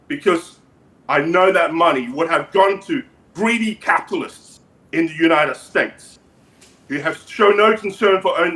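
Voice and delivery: deliberate, halting dictator voice; North Korean leader character. Acted. Leader thanks host for stolen money, measured dictator voice. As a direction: confess as a dictator, in measured accented phrases.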